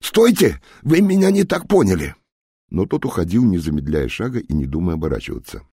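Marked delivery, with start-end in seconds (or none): 0.0-2.1 very high, loud squeal like a pig; a doomed spy squealing for the general to come back; shrieking squeal. Acted. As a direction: shriek in terror.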